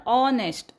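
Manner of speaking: ऑनेस्ट starting straight on ऑ; silent H. Shown as a demonstration. Teacher gives the right ऑनेस्ट, H silent. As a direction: begin ऑनेस्ट on the vowel, no H. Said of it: "ऑ पासूनच वाचायचं आहे".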